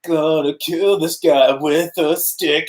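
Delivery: slow mock action-hero voice; Rambo voice. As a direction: drag it out like a cartoon tough guy. Mock Rambo cartoon line.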